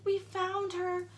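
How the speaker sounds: slow, drawn-out "We found her"; mock announcement. The teacher announcing to the class she was found, slow and drawn out. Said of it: "she's like".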